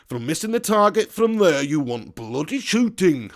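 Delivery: weird manager diction, slowing on the last words; mock football-manager pronouncement, drawn out at the end; Brian Clough. Streamer showing the voice he loved from the film, playful impression. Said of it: "I love Brian Clough's voice. He had such a weird way of speaking".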